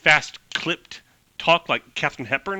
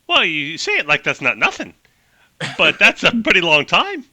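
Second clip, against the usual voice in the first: clipped Hepburn-style voice; 2 semitones higher, 4 dB louder than usual. Acted. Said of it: "really fast clipped talk like Katharine Hepburn".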